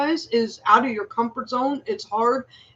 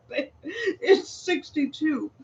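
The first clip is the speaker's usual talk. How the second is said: imitating calm husband; 6 semitones higher, 3 dB quieter, slower than usual. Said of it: "And he's like".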